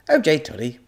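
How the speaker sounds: high, loud squeaky creature; a cheerful small alien; high squeaky alien agreeing; little creature voice. Acted. Creature's voice in story.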